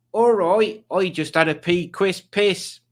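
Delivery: high, broad put-on voice; Alex impression. Streamer reading out a viewer's comment, in a high impersonating voice. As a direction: announce it in a high, exaggerated accent. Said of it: "a good impression of Alex".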